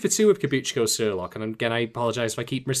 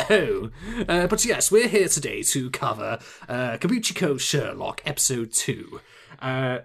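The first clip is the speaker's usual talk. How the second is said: put-on British accent. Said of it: "there's only so long I can put on that accent".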